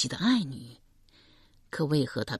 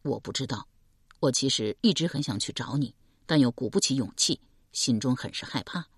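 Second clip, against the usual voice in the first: a lightly lowered calm man; man's voice; 3 semitones lower than usual. Acted. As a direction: speak as a steady young man.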